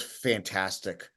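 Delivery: a lightly voiced impression of a singer, savouring the word slowly; gushing rock-star impression. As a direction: Fantastic drawn out slow and low. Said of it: "And he goes".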